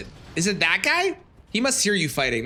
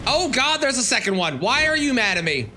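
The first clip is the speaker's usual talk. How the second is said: whiny alarm; 7 semitones higher than usual. Real, not acted. Enemies appear, whining at them.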